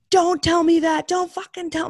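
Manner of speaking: high, loud distraught yell. Retold or imitated. Daughter yelling at her father's friend on the phone. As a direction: shout the news away in disbelief. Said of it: "like, yelling".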